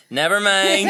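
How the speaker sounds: loud, snapped brush-off from upstairs; curt shout. Retold or imitated. Mum shouts down from the bathroom to the child, curt loud brush-off. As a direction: shut the question down fast. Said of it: "she would shout".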